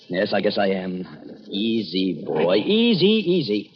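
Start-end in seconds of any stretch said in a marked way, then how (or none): 1.5-3.7 soothing a nervous dog; slow, gentle easy; calming a scared dog. Acted.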